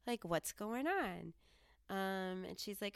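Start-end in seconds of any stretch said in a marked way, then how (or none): 0.1-1.3 bright, eager and higher; chirpy and keen to ask a stranger; happy self. Retold or imitated. Eager higher voice chatting up the shop clerk. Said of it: "I'm my happy self".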